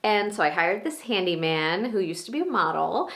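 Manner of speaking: gushing, excited and proud, pitch leaping high; Maura, high on life. Acted. Monologue actor as Maura catching up with Danny, high on life. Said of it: "so high on life".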